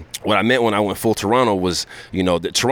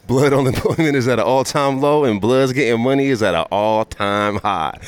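Blood Republican voice; 4 semitones higher than usual. Acted. Comedian plays his Blood Republican character for the host, laughing. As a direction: deliver it like a smug campaign soundbite, cracking up. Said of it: "the Blood Republican".

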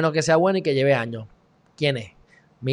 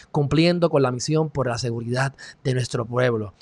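low, soft recital of a slogan; quoting his motto; 4 semitones lower, 5 dB quieter than usual. Retold or imitated. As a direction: read the motto out quietly and solemnly. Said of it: "él dice".

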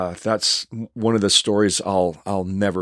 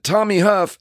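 starstruck echo; 9 semitones higher than usual. Retold or imitated. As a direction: echo "Tommy Huff" in awe. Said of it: "I said".

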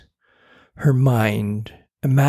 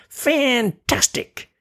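gloating praise; much slower than usual. Acted. Imp gloats.

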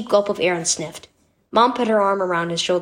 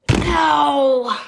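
sharp, higher cry of pain; 5 semitones higher, 3 dB louder than usual. A narrator's reading. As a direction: yelp an ow as if scraped. Boy falls off his bike.

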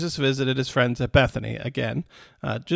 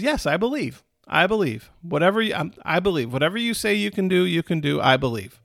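fervent believer; 2 semitones higher than usual. Retold or imitated. Martha tells Jesus she believes, mildly fervent. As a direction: affirm your faith with a hint of urgency. Martha voiced affirming faith.

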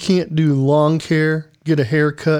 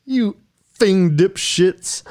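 laugh-crying; 4 semitones higher, much slower than usual. Acted. Astronaut breaks down over quarantine.

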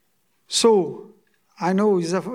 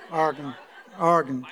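laughing; 4 semitones lower than usual. Shown as a demonstration. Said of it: "Better, better".

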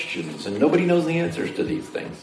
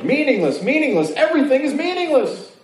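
dramatic proclamation; 11 semitones higher than usual. Pretend. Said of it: "agree with this statement".

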